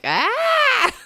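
shrill mock scream; high scream. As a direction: shriek in panic. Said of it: "and she's like".

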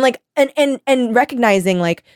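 ordinary delivery

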